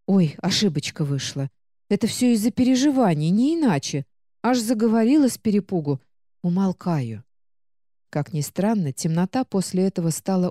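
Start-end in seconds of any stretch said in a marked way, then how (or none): 0.1-7.2 чуть быстрее, угодливо и виновато; подлизывается, сглаживая ошибку; заискивающий тон. Acted. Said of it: "заговорила заискивающим тоном". (заискивающим тоном)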